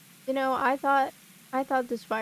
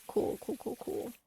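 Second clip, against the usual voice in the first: whispered; 2 semitones higher, 4 dB quieter than usual. Real, not acted. Muttering to herself after a fix.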